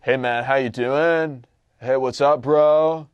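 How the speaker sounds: slow, loud dude-bro voice, mock introduction; casual bro greeting. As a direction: greet him like a laid-back bro, drawn out. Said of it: "doesn't talk like that".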